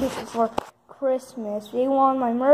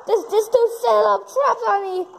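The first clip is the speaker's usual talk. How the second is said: excited outrage; 7 semitones higher than usual. Real, not acted. Caught in a trap, outraged.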